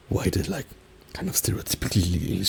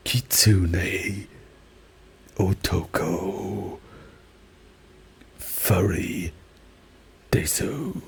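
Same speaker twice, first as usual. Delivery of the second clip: fake English-accented Japanese; slower than usual. Shown as a demonstration. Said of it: "my English Japanese was more fake English".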